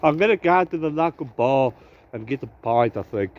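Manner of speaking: a vlogger's put-on South African accent; breezy mock South African accent throughout. Vlogger greeting viewers from the woods, in a put-on South African accent. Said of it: "don't ask me why I'm doing a South African accent".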